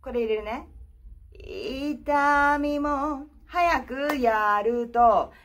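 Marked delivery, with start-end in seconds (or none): 1.4-3.3 vocal fry. Shown as a demonstration. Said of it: "エッジを入れて".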